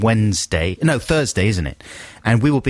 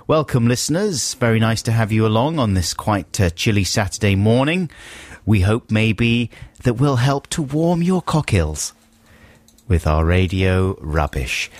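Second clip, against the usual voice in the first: raised, slowed-down DJ welcome; radio presenter link; 2 semitones higher than usual. Acted. Radio host back on air greeting Saturday morning listeners, presenter voice.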